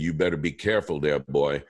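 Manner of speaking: lightly voiced sly villain; a hint of a taunting villain, quick; Green Goblin voice. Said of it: "as the Goblin".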